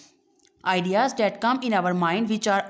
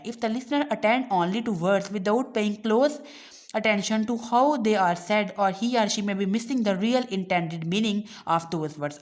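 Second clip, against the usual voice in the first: reading the English line slowly and deliberately; slow textbook reading; much slower than usual. Acted. Teacher reading the textbook aloud to students, slow and deliberate. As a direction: read it out word by word for the class.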